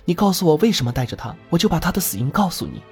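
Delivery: put-on hesitant, high young girl's voice; timid pleading. Girl careful not to provoke him, timid high voice. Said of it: "只能怯生生地说".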